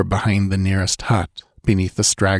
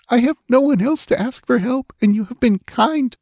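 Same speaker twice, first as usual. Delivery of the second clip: hint of tears. A narrator's reading. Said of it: "with a hint of tears in her voice".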